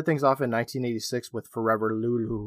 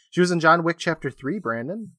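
talking through hiccups; words broken by a hiccup; 4 semitones higher than usual. Real, not acted. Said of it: "No, hiccups".

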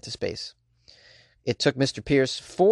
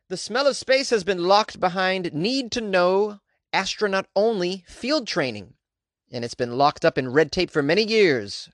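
dramatic announcer; 5 semitones higher than usual. Acted. Reads the Kickstarter pitch.

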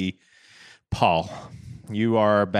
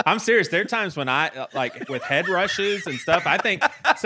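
laughing through the words, a bit higher; gasping giggly talk; breathless laughing; 7 semitones higher than usual. Real, not acted. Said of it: "used a lot of oxygen on that laugh".

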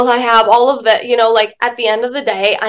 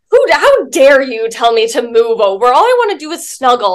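mock indignant. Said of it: "just immediately get angry".

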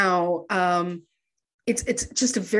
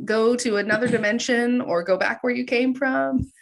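polite; 4 semitones higher than usual. Retold or imitated. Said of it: "real polite".

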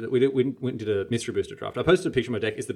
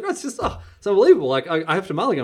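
hammed-up despair; 8 semitones higher, 5 dB louder, faster than usual. Imitating Martin's bad hand.

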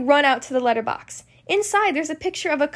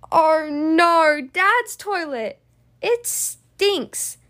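dread; much slower than usual. Acted. Children dread searching dad's toilet.

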